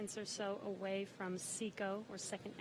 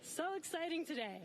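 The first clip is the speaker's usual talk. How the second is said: excited; 7 semitones higher than usual. Real, not acted. Celebrating the crewed launch.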